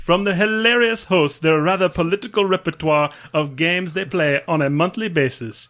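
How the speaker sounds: attempted Transylvanian vampire accent, sounding Jamaican; botched, lilting Transylvanian accent; the Count. Reading a listener's review as the Count in a botched Transylvanian accent. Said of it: "That is the Count in my head".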